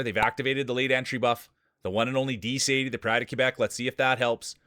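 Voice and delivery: lively play-by-play calling the field; race announcer. Acted. Streamer calls the marble race field, announcer style. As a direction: call the race like a sportscaster.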